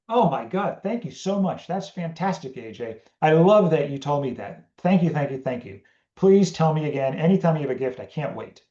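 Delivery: high, gushing over-the-top gratitude; mock overjoyed thanks. A partner thanking AJ for the gift, gushing. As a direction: pour on the delight. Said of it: "and they were like".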